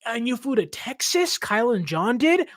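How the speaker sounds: hammed-up outraged fan, pitch jumping way up; imitating fans scolding Kyle and John in mock outrage. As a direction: parody the indignant fans, building to high indignation. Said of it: "saw that and were like".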